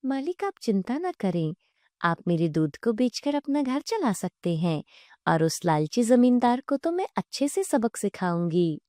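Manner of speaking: lightly voiced, reassuring divine cow; calm their fears with swooping intonation; kindly talking cow. Talking cow reassuring the frightened family, gently earnest.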